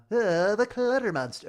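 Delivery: loud, high cartoon monster; stupid monster voice. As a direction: groan into a silly creature voice. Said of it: "Oh, so terrible, so bad".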